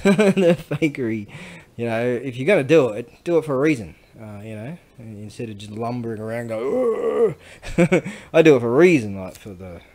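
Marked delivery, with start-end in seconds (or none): 0.0-1.3 louder, slow, laughing through it; laughing emphatic fakery. Shown as a demonstration. 6.5-8.0 high, loud grunting lift noise; hammed-up gym grunt; mock grunt.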